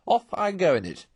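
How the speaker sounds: high, loud gleeful rush; gleeful vow. A narrator's reading. Toad gleefully tells the Badger he'll drive again, high and loud. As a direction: crow with delight at the thought of motoring.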